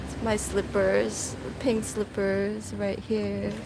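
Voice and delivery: echoey poolside voice; speaking from inside the pool; at an indoor pool. Real, not acted. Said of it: "hope you guys can hear me".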